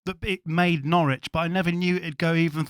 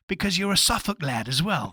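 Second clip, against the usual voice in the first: put-on a clumsy, half-hearted stab at a Suffolk accent; bad Suffolk accent; 2 semitones higher than usual. Host teasing his guest as a fellow Suffolk lad, in a bad Suffolk accent. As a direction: slip into a Suffolk accent you can't really do. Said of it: "I can't do the accent".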